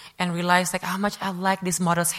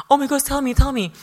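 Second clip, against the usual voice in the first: high, loud, eager pleading; acted-out excited urging; excited friend; 5 semitones higher, 6 dB louder than usual. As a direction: imitate a friend begging for the gossip. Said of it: "she gets so excited".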